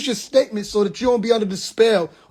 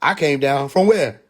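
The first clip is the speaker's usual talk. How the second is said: mock confused believer; 5 semitones lower, slower than usual. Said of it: "can't remember the thing".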